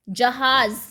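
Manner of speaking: जहाज said loud, ending in z; nukta z sound. Shown as a demonstration. Teacher modelling जहाज for students. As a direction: stress the final z of जहाज. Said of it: "नुक्ता लगा के".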